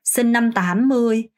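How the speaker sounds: slow, clear Vietnamese question; slow model phrase. Shown as a demonstration. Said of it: "이런 식으로 여러분도 얘기하실 수 있습니다". (천천히 또박또박 시범 질문)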